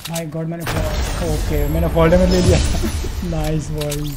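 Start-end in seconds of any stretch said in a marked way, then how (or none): 2.6-3.3 short breath of laughter; brief laugh at own mishap. Real, not acted. Laughs after taking fall damage. (छोटी सी हँसी)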